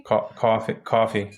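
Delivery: COFFEE in an East Coast accent; regional COFFEE. Shown as a demonstration. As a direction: show how you say COFFEE back home. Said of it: "How do you say".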